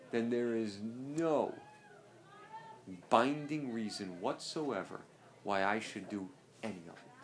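measured emphasis with long deliberate pauses; emphatic. Real, not acted. Teacher insisting to students on what follows if untrue, emphatic. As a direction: lay it down piece by piece, pausing heavily. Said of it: "I've said it emphatically".

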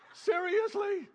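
a sudden high incredulous yelp. Real, not acted. Preacher scoffing at people lecturing God, high and incredulous. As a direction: toss it off in disbelief. Mocking the presumptuous prayer.

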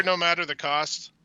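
slow, deliberate catchphrase read; a mock announcer's slogan, slowed. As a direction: drag out the slogan like a toy ad. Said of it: "You'll hear".

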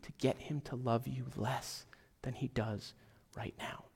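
dropping to a near whisper; soft intimate whisper to the congregation; hushed. Real, not acted. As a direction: lean in and hush the promise. Pastor's hushed emphasis on love.

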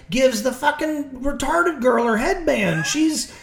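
high, slow disbelieving rant; incredulous. Retold or imitated. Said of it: "I remember watching that mugging and being like".

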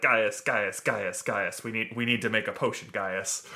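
fast, pleading cartoon stammer; Rick and Morty voice. Merlin begging Gaius, in a light Morty voice. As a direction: beg Gaius the way Morty would. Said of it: "more Rick and Morty".

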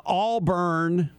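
AUBURN said as two drawn-out words, "AWL-BURN"; mispronounced Auburn. Retold or imitated. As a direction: imitate a newcomer over-pronouncing "Auburn" as "All-Burn". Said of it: "putting the emphasis on the first syllable".

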